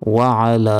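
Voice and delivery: ওয়া আলা separated with a throaty আইন; careful ওয়া আলা; correct pronunciation. Shown as a demonstration. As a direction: keep ওয়া and আলা apart. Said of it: "ওয়ালা বলবেন না".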